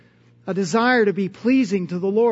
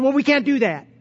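mildly snarky imitation of a store attendant; lightly exaggerated snippy refusal; 3 semitones higher than usual. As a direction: brush off a customer, mock-snarky. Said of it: "she was just kind of snarky".

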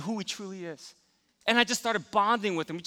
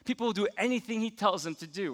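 inner grumbling; 6 dB quieter than usual. Retold or imitated. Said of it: "I started to think".

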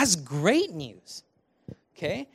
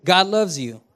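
congregation call; 5 dB louder than usual. Shown as a demonstration. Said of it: "turn to your neighbor and say".

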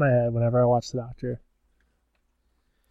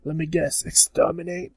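higher-pitched Cockney guess; mock Cockney; 5 semitones higher than usual. Fake Doctor guessing the villains' catchphrase, mock Cockney. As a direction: ask it in put-on Cockney. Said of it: "hardcore Cockney".

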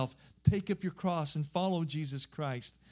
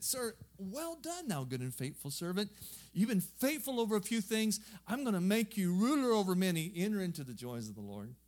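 praising master; 4 semitones higher than usual. Acted. Landowner praises faithful servant.

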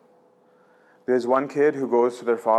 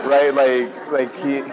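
ordinary delivery

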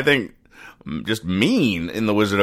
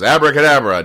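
mock incantation; 5 semitones higher, 5 dB louder, faster than usual. Wizard tries spell again.

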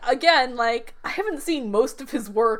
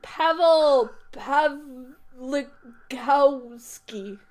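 slow careful name; much slower than usual. Shown as a demonstration. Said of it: "drawn-out careful name".

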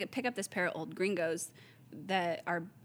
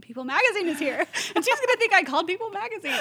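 mock panic; 12 semitones higher, 9 dB louder, faster than usual. Retold panic over clashing visitors.

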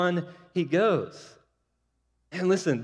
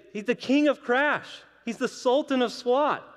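put-on excited kids; 8 semitones higher than usual. Boys excitedly telling Smalls about Ruth.

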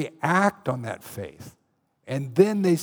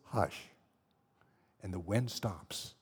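calm, very soft command; quiet the storm with one low word; soothing low hush; 8 semitones lower, 13 dB quieter, slower than usual. Acted. Jesus calming the storm.

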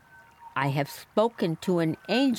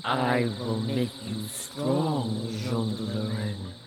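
archangel voice; 6 semitones lower than usual. Acted. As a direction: speak as a stern archangel. Voice of Saint Michel.

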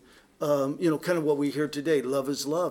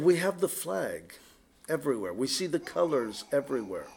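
sarcastic; 2 semitones lower than usual. Retold or imitated. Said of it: "I said sarcastically on Monday night".

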